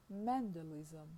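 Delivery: Mendelism stressed on MEN; stress stays on first syllable. Shown as a demonstration. Lecturer contrasts suffix ism with ian, stress stays on first syllable. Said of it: "stressed on the same syllable".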